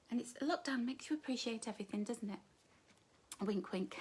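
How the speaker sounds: cheeky stage whisper. Real, not acted. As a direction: whisper it with a wink. Whispered innuendo.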